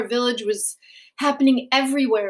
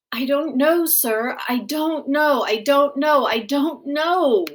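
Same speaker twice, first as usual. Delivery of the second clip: put-on distressed child repeating; 3 semitones higher than usual. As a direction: panic rising, then slowing.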